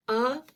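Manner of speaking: "arrive" split up, uh-ruh-IVE; long I sound. Shown as a demonstration. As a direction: stretch the second half of "arrive". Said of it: "That long I sound is in the second half".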